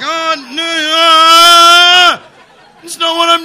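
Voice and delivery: loud, high panicked protest; mortified. Retold or imitated. Comic on air realising how it looks, high panicked squeal. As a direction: squeal it in horrified embarrassment. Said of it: "And I was like".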